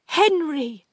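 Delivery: high, loud, fearful call; frightened. A narrator's reading. Aunt addressing Henry's ghost, frightened.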